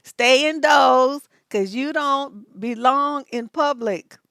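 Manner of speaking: slow, drawn-out lightly voiced grandfather; grandfather's saying. Quoting grandfather to people out in public, mock scolding. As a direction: lightly quote a grandfather's slow, loud warning. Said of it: "as my grandfather used to say".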